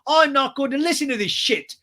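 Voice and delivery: high, loud mock tantrum; hammed-up indignant outburst; James. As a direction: imitate an outraged man refusing. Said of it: "And he's like".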